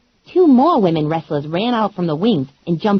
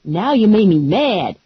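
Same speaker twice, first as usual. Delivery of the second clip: sassy Lula; slower than usual. Acted. Lula warning the wrestlers, lightly voiced and sassy. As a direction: tell them off with attitude. Lula's voice.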